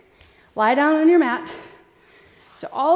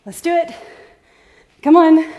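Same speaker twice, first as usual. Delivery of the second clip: higher, louder coach rally; 5 semitones higher, 11 dB louder than usual. Real, not acted. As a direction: pump the class up. Coach rallies tired class.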